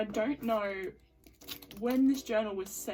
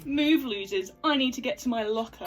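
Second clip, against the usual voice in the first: put-on loud snooty mean girl; 7 dB louder than usual. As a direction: bark it like the school bully. Script, mean girl Shelby.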